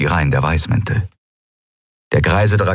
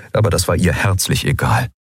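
ordinary delivery

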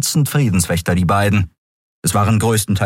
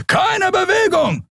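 high, slow, drawn-out yell of Bewegung; guard's shout. A narrator's reading. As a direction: stretch out Bewegung as a harsh command. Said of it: "schrie ein Weißmantel".

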